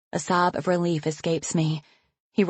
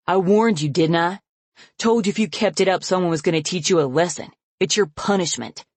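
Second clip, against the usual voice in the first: loud, threatening lecture; father threatening his daughter; menacing; 2 semitones higher, 3 dB louder than usual. Acted. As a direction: lay the threat on her.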